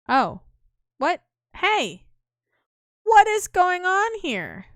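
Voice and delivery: high, slow and drawn out; high slow bewildered voice; slow puzzled character. Acted. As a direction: stretch the question out in a put-on voice. Character arrives confused.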